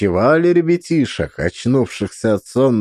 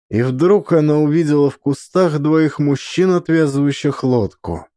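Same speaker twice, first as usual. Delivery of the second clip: plain reading voice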